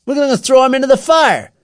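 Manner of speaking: loud, high declaration; menacing announcement. A narrator's reading. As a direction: proclaim the threat to the gang. Leader announces the threat.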